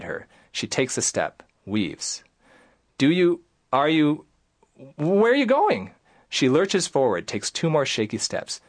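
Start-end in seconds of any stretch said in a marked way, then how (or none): 3.0-5.9 alarmed. Retold or imitated. Patient stumbling.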